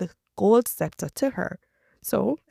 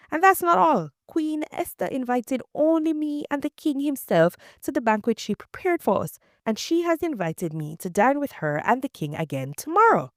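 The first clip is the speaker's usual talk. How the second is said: boastful Haman; 7 semitones higher than usual. A narrator's reading. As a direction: crow about it like a smug braggart.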